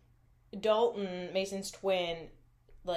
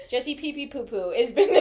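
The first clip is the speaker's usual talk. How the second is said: breaking up laughing; 7 semitones higher, 8 dB louder than usual. Real, not acted. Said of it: "if you can't say ... with a straight face".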